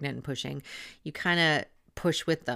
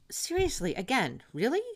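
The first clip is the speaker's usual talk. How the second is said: incredulous; 10 semitones higher than usual. Retold or imitated. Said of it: "And I thought".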